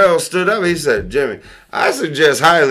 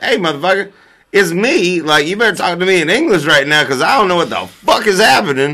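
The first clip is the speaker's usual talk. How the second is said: exasperated; 4 semitones higher, faster than usual. Retold or imitated. Retold confused protest at friend.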